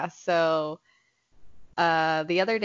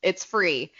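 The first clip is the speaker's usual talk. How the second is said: mock Gordon; 3 semitones higher, slower than usual. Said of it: "Gordon was like".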